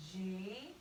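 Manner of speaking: letters spelled out slowly one by one; slow spelling. Shown as a demonstration. Teacher spelling gardening letter by letter, slowly. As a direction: spell each letter out carefully. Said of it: "we would just spell it".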